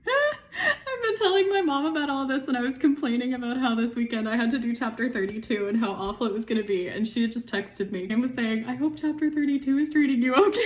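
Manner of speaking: choked-up, laughing through tears; tearful. Real, not acted. Vlogger recounting mom's supportive text, tearful.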